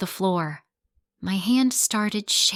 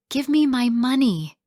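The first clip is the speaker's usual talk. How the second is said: louder, higher angry landlord demanding money; 6 semitones higher, 4 dB louder than usual. Acted. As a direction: bark it at the tenants.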